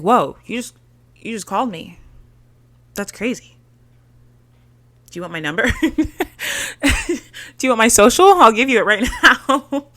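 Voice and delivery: giggly, lovestruck offer; laughing mock infatuation; mock smitten gushing. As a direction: play the smitten girl offering everything.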